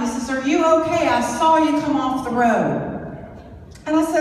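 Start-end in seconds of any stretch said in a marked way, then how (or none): 0.3-3.2 louder, calling down a ravine; yelling down. Retold or imitated. Trooper shouting down to a driver in the ravine. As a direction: call out to someone far below. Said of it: "he yells down".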